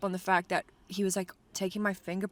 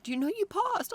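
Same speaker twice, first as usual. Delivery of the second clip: imitating excited woman; 14 semitones higher than usual. Testing station woman calling out.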